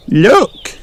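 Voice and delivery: put-on high little-girl amazement; high storybook child exclaiming; gasped exclamation. A narrator's reading. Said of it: "gasped Peppa".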